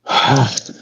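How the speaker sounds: weary sigh. Acted. Wounded mermaid recounting the attack.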